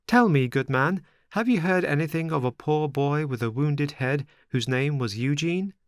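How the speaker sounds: high, pleading marionette voice; anxious puppet boy. A narrator's reading. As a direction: ask the old man with worried hope. Pinocchio asks old man.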